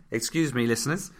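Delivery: coughing through the words; choking cough. Real, not acted. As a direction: frog in the throat, clearing it. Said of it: "I'm just choking".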